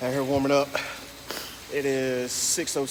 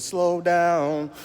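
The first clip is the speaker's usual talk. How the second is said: higher, louder quoted rap line; a rap group's quote; 4 semitones higher, 4 dB louder than usual. Retold or imitated. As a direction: call it out like the rap hook. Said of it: "Like a rap group said".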